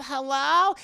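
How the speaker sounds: high, loud, sing-out hello; mock phone greeting. Answering phone as Heather.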